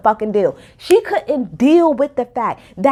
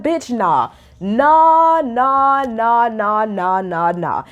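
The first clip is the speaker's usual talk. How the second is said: flat refusal; 3 semitones lower, much slower than usual. Real, not acted. Refusing Sutton, repeated nah.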